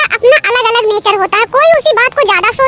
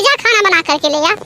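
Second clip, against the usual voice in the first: grumbled order; 4 semitones lower than usual. Acted. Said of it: "मत ऐसे बोला करो".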